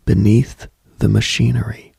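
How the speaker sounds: ordinary talk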